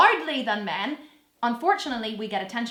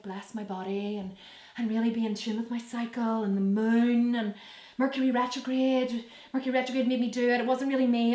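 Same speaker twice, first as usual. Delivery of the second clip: mocking spiritual woman. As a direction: lightly sneer at the moon-and-cycle crowd. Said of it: "women who are so into the whole".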